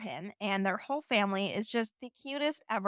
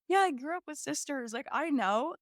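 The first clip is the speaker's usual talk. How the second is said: mocking a guy; 5 semitones higher than usual. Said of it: "especially if they say".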